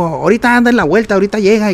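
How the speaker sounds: high-pitched quoted reassurance; acted-out excuse. Acts out others' excuse for absence.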